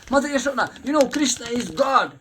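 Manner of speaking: high, loud eager cry; breathless eager news for Mother Yashoda; excited announcement. Acted.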